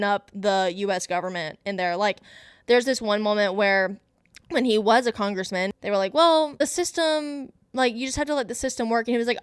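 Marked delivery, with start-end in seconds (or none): 6.1-9.1 mimicking officials. Mimicking officials' excuse in retold scene.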